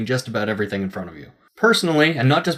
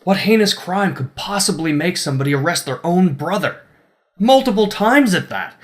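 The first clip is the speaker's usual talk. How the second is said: mock shocked questions; mock outrage; 5 semitones higher than usual. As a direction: ham up the disbelief. Mock outrage at a tiny crime.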